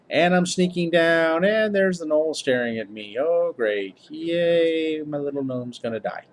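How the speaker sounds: hammed-up, loud retelling of doom; playing up failure. Player retells his epic fail to viewers, mock-dramatic dismay. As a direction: play up the disaster for laughs, drawn out at first.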